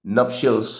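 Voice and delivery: नप्शियल्स said with a clear final s; correct form with s. Shown as a demonstration. Teacher correcting students, stressing the final s. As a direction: end नप्शियल्स firmly on the s sound. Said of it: "कुछ लोग नप्शियल बोलते हैं लेकिन वो गलत है".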